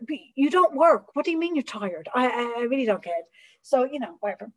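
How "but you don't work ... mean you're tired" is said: incredulous scolding. Retold or imitated. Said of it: "I'm like".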